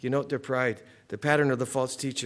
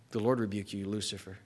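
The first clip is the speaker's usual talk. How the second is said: much lower and softer, almost hushed; humble quiet rebuke; 5 semitones lower, 7 dB quieter than usual. Retold or imitated. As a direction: say it meekly, leaving it to God. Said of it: "But Michael would go".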